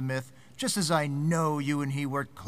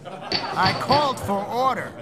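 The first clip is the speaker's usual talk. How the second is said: stern call for order; 4 semitones higher, 4 dB louder, slower than usual. Acted. Chairman restoring order in hearing.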